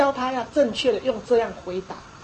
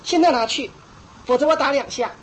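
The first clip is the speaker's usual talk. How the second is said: 严厉警告; 3 dB louder than usual. Retold or imitated. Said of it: "很严厉的说".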